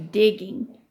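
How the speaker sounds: lively read-aloud voice for the class; story reading. A narrator's reading. Teacher reading a chapter to her class, storytelling voice.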